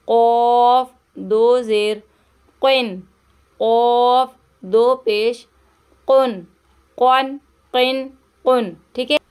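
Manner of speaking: heavy emphatic q for a reading lesson. Shown as a demonstration. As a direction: keep कॉफ heavy and full. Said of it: "इसको मोटा करके पढ़ेंगे".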